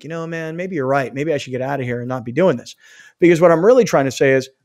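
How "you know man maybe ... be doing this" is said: low, softly conceding voice; acted mild second thoughts; man talked round. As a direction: give in quietly, pitched down. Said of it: "hopefully he'd be like".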